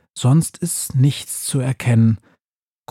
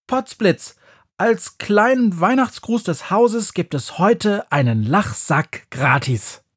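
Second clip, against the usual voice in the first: much higher, showy market-crier witch; witch announcing; 8 semitones higher, slower than usual. A narrator's reading. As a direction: sell it like a fairground barker.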